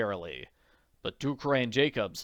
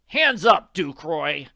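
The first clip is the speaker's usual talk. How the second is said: commanding shout; 5 semitones higher, 9 dB louder, slower than usual. Acted. Ambush at gunpoint.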